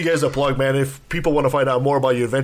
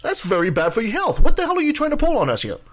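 biased pundit; 5 semitones higher than usual. Acted. Mock debate host grilling guests.

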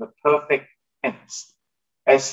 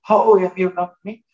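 mock pushback; 5 semitones higher, 4 dB louder than usual. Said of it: "and you say".

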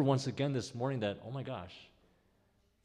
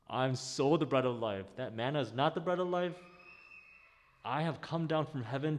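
playful, emphatic Jesus with a laugh; voicing Jesus; 2 semitones higher than usual. Preacher voicing Jesus telling people he is the bread. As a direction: lean into it, almost teasing. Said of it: "He is making a very simple point".

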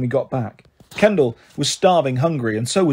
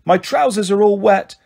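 put-on higher-pitched childish wail; 5 semitones higher, 3 dB louder than usual. A narrator's reading. Little brother to sister after an accident, wailing. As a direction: wail it like an upset little boy. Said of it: "Kendall wailed".

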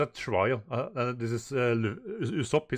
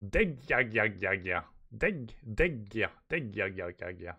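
lightly voiced giant's chuckling laugh; Goldberg's laugh; 2 semitones lower than usual. Reader voicing Goldberg's laugh, a mild chuckle. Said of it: "Goldberg's laugh is".

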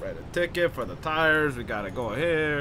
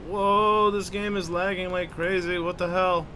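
raised, surprised outburst; startled complaint; 6 semitones higher, 3 dB louder, slower than usual. Real, not acted. Player reacting to a badly lagging game, startled complaint.

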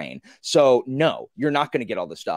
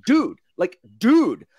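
exasperated; 5 semitones higher, 6 dB louder, slower than usual. Retold or imitated. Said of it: "Blistig is like".

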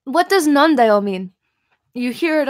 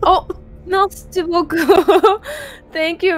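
laughing; 5 semitones higher, 5 dB louder than usual. Real, not acted. Thanks while laughing.

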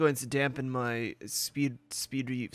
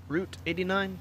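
rising, doubtful re-read of the road name; puzzled question; 5 semitones higher than usual. Shown as a demonstration. Gamer rereading a location card, puzzled and questioning. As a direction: say Route eighty-nine as if unsure it's right. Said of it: "Who knows?".

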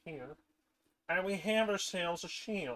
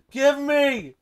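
eager; 7 semitones higher, 12 dB louder than usual. Real, not acted. Grabbing for the iron.

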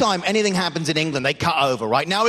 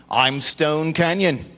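newsreader name; 3 semitones lower, much slower than usual. Pretend. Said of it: "they have ridiculous names".

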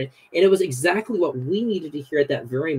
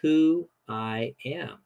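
lightly voiced God calming Moses down; slower than usual. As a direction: gently settle a panicked Moses. God answering Moses, paraphrased.

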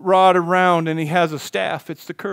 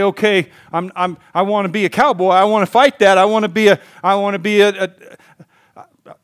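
eager cowboy; 3 semitones higher, 6 dB louder than usual. Acted. Sheep voiced wanting to fight.

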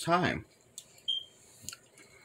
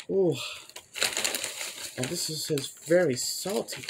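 talking with food in mouth; chewing chips; 4 dB quieter than usual. Real, not acted. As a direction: mouth partly full of chips. Seen 0: man in blue handles chip bag, mouth appears chewing while talking.

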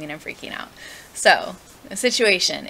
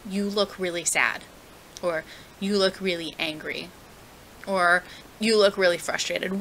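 gentle. Shown as a demonstration. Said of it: "get down to their eye level and say".

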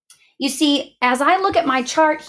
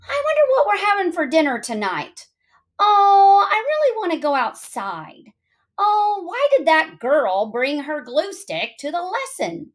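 lightly acted wandering thoughts, higher pitched; distracted inner voice; 5 semitones higher than usual. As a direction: let the mind drift off in a higher voice. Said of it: "your brain thinks about other things".

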